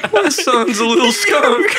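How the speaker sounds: slow, high laughing mom voice; mock proud mom. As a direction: gush like a doting mother. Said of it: "my mom".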